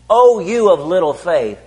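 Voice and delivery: slow, deliberate rebuke; a slow, weighted chiding. Acted. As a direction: lean on each word, slowly. Repeating Jesus' rebuke slowly.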